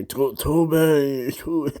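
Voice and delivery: high, loud mimicry of a brother, breaking into laughter; mock your brother's demand way up high. Making fun of his brother's request, high mocking imitation.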